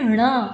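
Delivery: ण said alone as retroflex nasal "ṇa"; teacher's careful nasal "ṇa" for ण; nasal letter demo. Shown as a demonstration. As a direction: show ण with the tongue curled back, sounding through the nose. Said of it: "इसको बोलते हैं".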